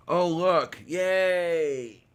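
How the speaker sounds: high, loud burst of delight; excited. Real, not acted. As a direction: cheer it like you just spotted a treat. Delighted at the charged batteries.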